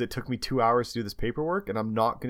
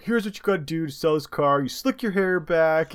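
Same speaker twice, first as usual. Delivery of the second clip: imitating salesman; 5 semitones higher, 3 dB louder than usual. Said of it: "I heard something around, like".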